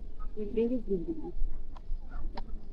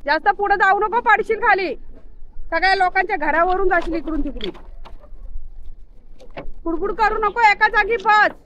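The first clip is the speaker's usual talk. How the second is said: high, loud warnings to the dog; anxious raised shouting at a pet; yelling at the dog; 9 semitones higher, 6 dB louder than usual. Real, not acted. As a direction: stop him running over the roofs.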